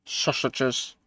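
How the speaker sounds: high, odd little voice; a lightly voiced Keith; mock Keith voice. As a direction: toss the word off in a put-on voice. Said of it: "Not doing my best Keith voice there".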